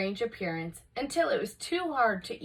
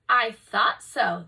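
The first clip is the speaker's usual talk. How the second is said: with a smile; 7 dB louder, slower than usual. Acted. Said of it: "the old woman said with a smile".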